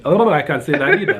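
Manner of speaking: laughing at himself; chuckling at his own slip; kind gentle laugh. Real, not acted. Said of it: "you're making me laugh today".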